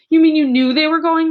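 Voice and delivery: high, loud betrayed question; stunned that she knew; crying out. Acted. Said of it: "Matilda cried".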